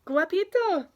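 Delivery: loud, high grandmother's call. A narrator's reading. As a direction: call the boy joyfully across the fence. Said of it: "she calls Juan".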